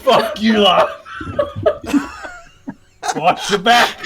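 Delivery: shouted retort. Acted. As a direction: yell it out triumphantly. Replaying his kill line.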